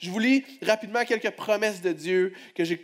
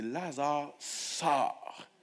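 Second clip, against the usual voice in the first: quiet conviction; 6 dB quieter, much slower than usual. Retold or imitated. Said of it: "Avec conviction".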